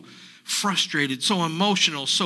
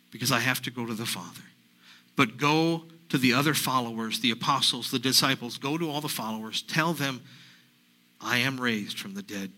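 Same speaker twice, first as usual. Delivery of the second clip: gentle Jesus voice; 3 semitones lower than usual. Acted. Jesus speaks gently to Mary.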